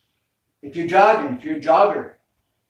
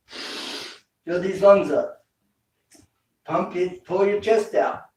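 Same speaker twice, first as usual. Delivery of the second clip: rousing coach command; 5 semitones higher, 4 dB louder, slower than usual. Shown as a demonstration. Coach urging deep breathing.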